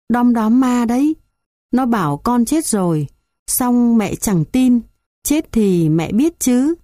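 put-on high, dazed old woman's voice; an old woman half waking from a dream, bewildered. Old woman's long dazed speech. (giọng bà cụ bàng hoàng, cao giọng)

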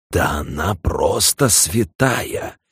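slow, sarcastic aside; mock the witness under your breath; ironic whisper. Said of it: "иронично прошептала Шонесси Теду".

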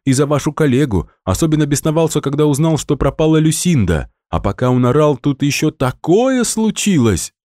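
high, breathless excited chatter; excited shouting. A narrator's reading. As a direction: pour it out in a high excited rush. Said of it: "Наташа от волнения кричала". (взволнованно кричит высоким голосом)

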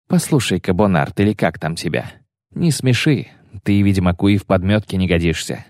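rising, contemptuous jabs; scornful mockery. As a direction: belittle him with scorn. Yennefer mocks Bonart. (презрительная насмешка)

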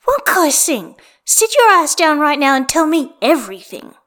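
shrill demanding shout; screeching. Acted. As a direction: screech it from the kitchen. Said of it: "someone screeches his name".

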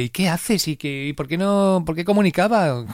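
lightly voiced wife peppering him with questions; mock nagging wife. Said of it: "a pesar de su tonito dulce".

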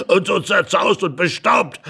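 laughing mockery. Couple laughing at the dusty intruder, amused. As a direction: say it through a chuckle.

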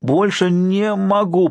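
exhausted, pained cry of giving up; strained moan. Acted. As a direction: moan it as if at the end of his strength. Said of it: "простонал Шер".

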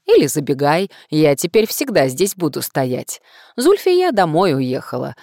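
loud, cheerful market seller; cheerful street vendor. Acted. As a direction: hawk it like a friendly vendor. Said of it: "продавец".

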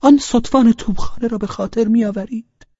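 put-on high, silly drunkard's voice; daft, high-pitched question; foolish drunken tone. A narrator's reading. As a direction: ask it like a witless drunk. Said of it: "با لحنی احمقانه و نامفهوم گفت".

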